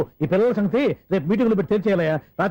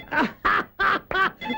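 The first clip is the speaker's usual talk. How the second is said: high, stagy burst of laughter; forced comic ha-ha-ha; hammed-up laugh; 10 semitones higher, 3 dB quieter than usual. Laughs off his mishearing.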